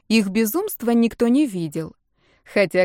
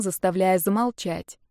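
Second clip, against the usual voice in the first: plain reading voice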